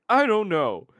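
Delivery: high, loud sheepish I don't know; sheepish answer. Acted. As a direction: squeak out an unsure answer. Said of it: "looks at you and goes like".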